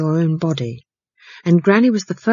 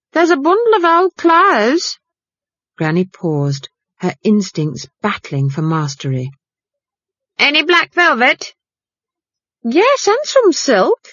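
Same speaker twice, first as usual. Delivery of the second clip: higher, louder housekeeper voice calling out; housekeeper calling after; 9 semitones higher, 3 dB louder than usual. Acted. Housekeeper calling after Granny about black velvet, high and louder. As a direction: call out high after the departing witch.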